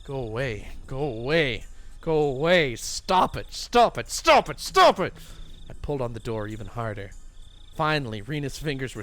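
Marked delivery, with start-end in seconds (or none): 0.0-5.1 from plain to much louder shout; building yell. Acted. Keiichi yelling at Rena, building to a shout. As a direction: escalate into a panicked scream.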